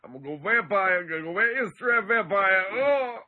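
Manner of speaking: put-on loud, high Jersey Shore accent. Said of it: "Is that, like, Jersey Shore?".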